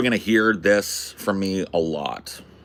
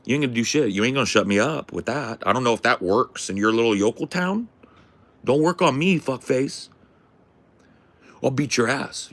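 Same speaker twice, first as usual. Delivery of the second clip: retold taunting; 4 semitones higher than usual. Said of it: "I said".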